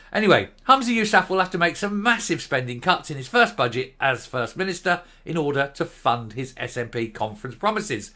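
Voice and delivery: reading the report aloud like a newsreader; formal news read with a touch of irony. Acted. Reads out the news item.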